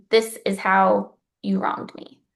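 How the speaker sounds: measured, slow courtroom statement; reading out in court. Shown as a demonstration. Writer stating a wrong as if in court, measured. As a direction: state it clearly, without emotion. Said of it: "as if you were reading something in court".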